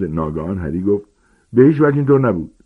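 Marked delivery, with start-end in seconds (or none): 1.5-2.5 sudden, fast and louder, cutting in; fast furious denial; angry outburst. Acted. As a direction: snap back in anger. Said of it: "هیچ وقت اینقدر خشمگین نشده بود".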